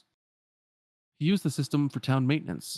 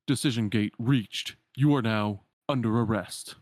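computer voice; 3 dB louder than usual. Acted. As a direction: announce the arrest like a cold program. Computer program announces arrest.

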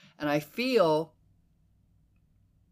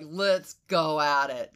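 Marine Corps daughter; slower than usual. Retold or imitated. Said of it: "There's a Marine Corps daughter in me".

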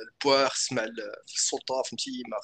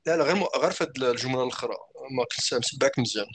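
half robot voice. Real, not acted. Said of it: "كنسمعك شويه بحال الصوت روبوتيزي".

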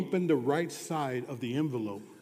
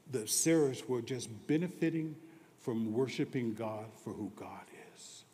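hushed whisper; 3 semitones lower, 5 dB quieter than usual. Acted. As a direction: draw the congregation close with a whisper. Hushed preaching line.

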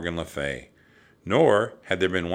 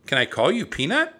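high, raised pet-talk voice; cooing question; 10 semitones higher, 5 dB louder than usual. A narrator's reading. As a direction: ask a tiny animal sweetly. Annie talks to the mouse.

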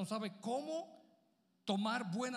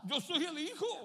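Jesus voice, higher and slow; 7 semitones higher, slower than usual. Acted. Pastor plays Jesus declaring himself the Son, higher and slow. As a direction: speak as the Son, lifting each word. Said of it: "Pero si tú fueses Jesús".

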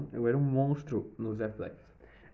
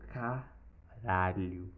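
awed slow swear; 2 semitones lower, 5 dB quieter, much slower than usual. Retold or imitated. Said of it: "o Cauã falou".

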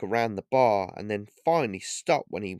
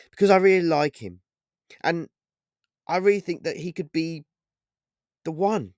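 tender, a touch dreamy; warm smile; 7 semitones higher, 5 dB louder than usual. A narrator's reading. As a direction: speak fondly of the new man. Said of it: "said Holly with a warm smile".

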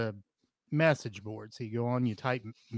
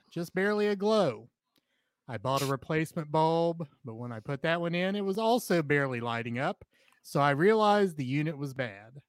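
measured, projected reading of a posted story; storytelling read-aloud voice; 5 semitones higher than usual. Acted. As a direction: read the anecdote out clearly to listeners.

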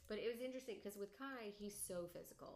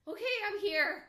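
put-on calmed child; 12 semitones higher, 17 dB louder than usual. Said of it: "he's just like".

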